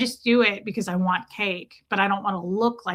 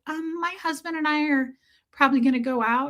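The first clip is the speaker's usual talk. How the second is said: awkward politeness; 5 semitones higher than usual. Retold or imitated. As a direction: hedge politely in a raised voice. Accountant awkwardly answers nosy question.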